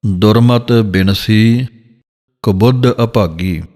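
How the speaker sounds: slow, measured gurbani reading; scripture recitation. Shown as a demonstration. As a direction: recite it slowly like a kirtan line.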